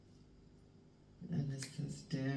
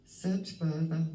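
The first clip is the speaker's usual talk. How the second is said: slow and weighty, leaning on search; slow emphatic card reading; 4 dB louder, slower than usual. Acted. Reading the card's message aloud to viewers, slow and weighty. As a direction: read the card's words slowly and firmly. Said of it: "it says".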